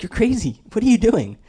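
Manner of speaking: high, loud alarmed yell; wife yelling. Retold or imitated. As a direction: shriek at a reckless driver. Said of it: "she's like".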